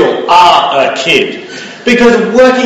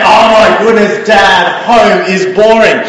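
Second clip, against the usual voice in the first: mock kid's whinge, a bit louder; 3 semitones higher, 4 dB louder than usual. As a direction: lightly act out a bored, whingeing child. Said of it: "They whinge and say".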